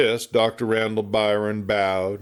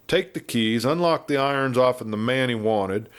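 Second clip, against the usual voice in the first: talkative frontier lawman, raised a bit in pitch; a chatty old westerner spinning yarns; garrulous old marshal; 3 semitones higher than usual. Acted. Garrulous marshal rambling at the doctor, lightly voiced. Marshal tells Dan Barry's tale.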